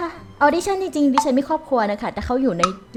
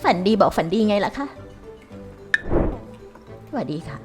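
lightly voiced old grandma, polite; a hint of a frail granny; shaky old voice; 5 semitones higher, 9 dB louder than usual. Plays grandma looking for work.

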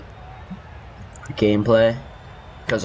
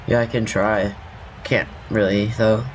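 scratchy morning voice; just woke up, rough scratchy voice. Real, not acted. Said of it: "my voice sounds a bit scratchy".

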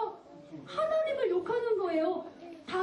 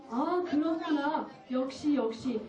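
slow, lowered approval; lightly voiced king; 4 semitones lower than usual. King hearing the report about David, slow low approval. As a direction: nod along slowly in a lightly regal role.

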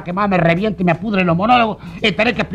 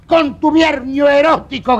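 mock drunken shout; 4 semitones higher than usual. A short drunk man heckling at the party, slurred mock shout. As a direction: yell it out slurred like a tipsy little guy. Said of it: "gritó un petizo".

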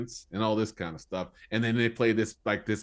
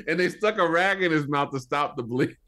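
laughing; 5 semitones higher, 3 dB louder than usual. Real, not acted. Laughing over gory detail.

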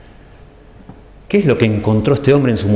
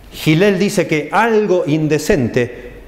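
slow, higher, "algo" pushed hard; preacher stresses "algo" to show Gilel's reading; 4 semitones higher, much slower than usual. Shown as a demonstration. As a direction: drag it out and hit "algo". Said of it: "Gilel enfatiza la palabra algo".

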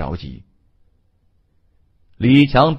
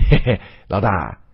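sheepish chuckle; 3 semitones lower than usual. Acted. Sidekick chuckles before flattering boss.

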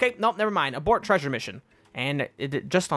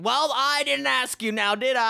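sidekick voice; 5 semitones higher than usual. Acted. Companion Bobbin retorts.

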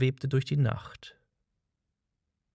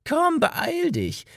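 urgent call; slower than usual. A narrator's reading. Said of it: "rief der Alte".

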